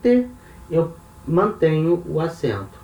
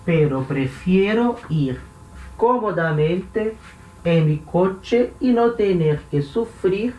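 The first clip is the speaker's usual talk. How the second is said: lightly voiced son, higher and slow; son's reply; 4 semitones higher, slower than usual. Teacher reading the son's reply in Spanish, slow and raised. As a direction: read the son's line a bit higher, unhurried. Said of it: "Aí o hijo fala".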